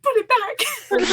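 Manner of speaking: slow loud command. Real, not acted. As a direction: stretch every word out, insisting. Repeated command, slower.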